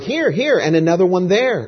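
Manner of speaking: high, rising distressed wail, a touch acted. A narrator's reading. Corrie spotting fleas in the light, high distressed wail. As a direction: wail as you spot each flea. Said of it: "Corrie wailed".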